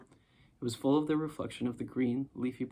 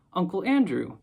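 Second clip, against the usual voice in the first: higher, louder shout of recognition; shouted name; 6 semitones higher, 8 dB louder than usual. A narrator's reading. Diggory remembering, shouting his uncle's name. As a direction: cry out the name as it all comes back. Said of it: "And he shouted out".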